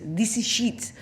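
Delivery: mock French accent, "shit" as "sheet"; lightly put-on French accent; French financier. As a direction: imitate the Frenchman's refrain. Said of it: "it was a French financier".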